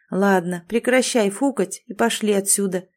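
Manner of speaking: easygoing, soothing with a smirk; calm her down with a grin; conciliatory. Acted. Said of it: "примирительно произнёс Дэвид и ухмыльнулся".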